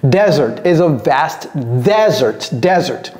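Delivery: "desert" as DEZ-ert, first syllable stressed; desert pronunciation. Shown as a demonstration. Teacher finally agrees to pronounce it, careful model. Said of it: "je vais le prononcer".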